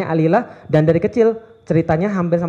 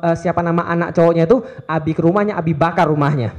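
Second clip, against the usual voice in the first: mock protective father. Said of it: "ya saya pesan begitu".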